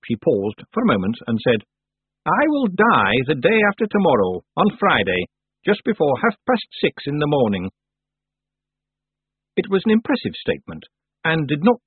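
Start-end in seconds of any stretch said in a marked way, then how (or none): 2.2-7.7 higher-pitched, measured character voice; old witch, matter-of-fact. Acted. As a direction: announce it formally as the old witch. Old witch announces her death.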